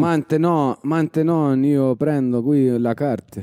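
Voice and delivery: slow, put-on Italian accent; drawn-out Italian-accented delivery. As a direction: mix French and Italian, slowly. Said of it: "il manque l'accent italien".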